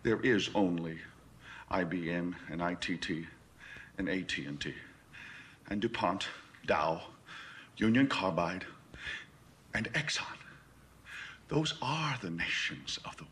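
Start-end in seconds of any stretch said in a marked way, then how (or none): 0.0-10.4 low, measured voice with long pauses; controlled condescension. Acted. Schooling Beale on who really rules, controlled condescension. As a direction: lay it out piece by piece, restrained.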